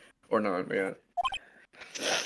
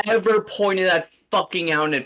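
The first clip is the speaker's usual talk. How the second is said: excited yelling; 11 semitones higher, 8 dB louder than usual. Real, not acted.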